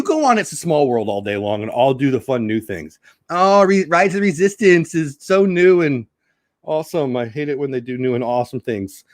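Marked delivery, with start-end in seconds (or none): 3.3-9.0 mocking quote. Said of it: "says only Disney people".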